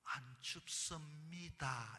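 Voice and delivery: slow, flat-out reply; blunt reply. Retold or imitated. Seoul man slowly brushing off his date's hint. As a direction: spell the refusal out slowly. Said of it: "그랬더니".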